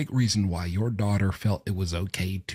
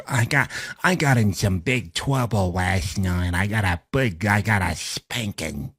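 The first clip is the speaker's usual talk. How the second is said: mock little boy. Mocking the father as a little child.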